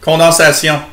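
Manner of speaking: "Condensation" said as a French word; French "Condensation", ending in "syon" instead of "shun"; French pronunciation. Shown as a demonstration. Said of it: "what's French for condensation".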